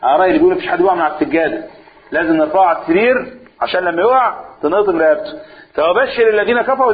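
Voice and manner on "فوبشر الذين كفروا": higher, bright mock promise; mock-cheerful build-up before the blow; lifting them up. Shown as a demonstration. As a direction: raise them up before the drop. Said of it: "اطلع فوق شوية عشان بقى هتاخد الوقعة".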